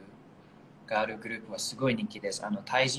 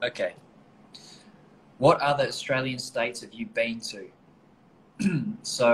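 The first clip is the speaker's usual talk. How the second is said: normal talking voice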